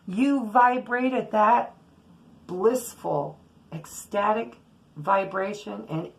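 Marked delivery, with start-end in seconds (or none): none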